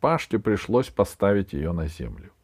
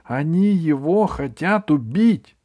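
alarmed exclaim; 9 semitones higher, 6 dB louder than usual. A narrator's reading. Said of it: "воскликнул самый молодой из гномов".

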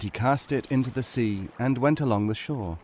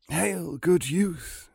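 put-on higher, slow old man's voice; 6 semitones higher, much slower than usual. Old man hailing a youth on the road, slow and high. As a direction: greet him slowly as an aged stranger.

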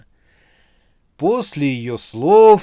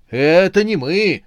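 higher, louder panicked protest; frightened squeal; 6 semitones higher, 7 dB louder than usual. A narrator's reading. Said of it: "с перепугу взвизгнул он". (испуганный визг)

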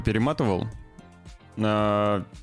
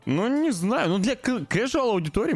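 doubtful; 11 semitones higher than usual. Real, not acted. Doubtful aside.

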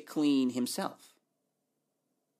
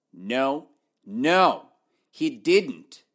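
emphatic no; 9 dB louder, much slower than usual. Real, not acted. Teacher firmly correcting the wrong answer.

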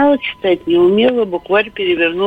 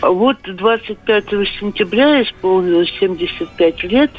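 over a landline phone. Real, not acted. Caller on radio phone line.

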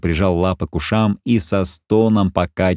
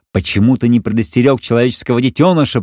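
thundering; 4 semitones higher, faster than usual. Acted. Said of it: "прогремела она".

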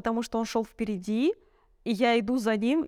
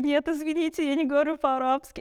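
higher-pitched, hurried-to-explain apology; acted apologetic refusal; 5 semitones higher than usual. Telling friends she speaks no Arabic, acted apology. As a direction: play an awkward, polite disclaimer. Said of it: "Я такой".

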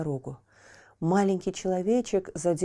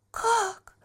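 Пьеро; 4 dB louder, much slower than usual. Acted. Pierrot excited question.

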